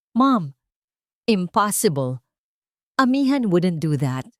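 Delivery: a touch of alarmed disbelief; son's mild frightened protest to his mother; confused and afraid. Acted. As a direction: deny it, lightly shaken. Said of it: "puno ng pagkalito at takot".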